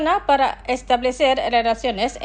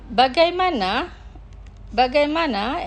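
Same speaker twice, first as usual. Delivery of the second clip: careful, measured vocabulary model; slow pronunciation; 3 semitones higher than usual. Shown as a demonstration. Teacher models words for listeners to repeat, slowly. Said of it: "Los pronunciaré lentamente".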